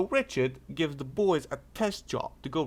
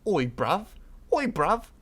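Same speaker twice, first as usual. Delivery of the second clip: rising higher and louder; building roadman challenge; 5 semitones higher, 5 dB louder than usual. Retold or imitated. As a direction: square up, getting louder. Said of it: "Tyrese like".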